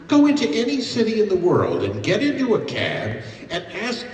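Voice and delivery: loud oratory. Real, not acted. Orator drives his point home.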